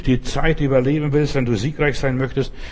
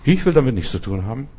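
much higher, softer calm refusal; Jesus refusing; 7 semitones higher, 4 dB quieter than usual. Retold or imitated. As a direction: politely wave the offer away, lifted voice. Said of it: "Jesus sagt".

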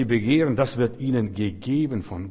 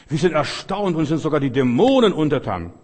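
astonished disciples; 3 semitones higher, 7 dB louder than usual. Retold or imitated. Disciples' astonished report quoted.

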